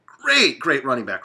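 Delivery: excited praise. Real, not acted. Praising Le'Veon Bell.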